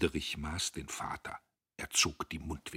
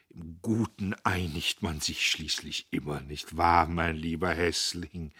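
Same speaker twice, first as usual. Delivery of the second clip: gentle, smiling plea, slowing at the end; apologetic smile; 4 dB louder than usual. Acted. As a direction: coax him back to peace. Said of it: "lächelte entschuldigend". (Der Vater beschwichtigt Diederich: sanft und entschuldigend)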